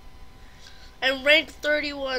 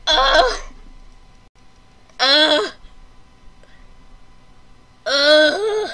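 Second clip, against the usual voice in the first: loud wordless moans of defeat; frustrated loud "uh"; loud groans; 3 semitones higher, 10 dB louder, much slower than usual. Real, not acted. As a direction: groan out the loss, loudly. Moaning after losing.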